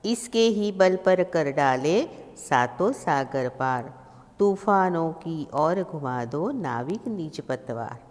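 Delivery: slow, measured verse reading; poem recitation. Acted. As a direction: recite the verse with drawn-out words. Recites the poem's lines.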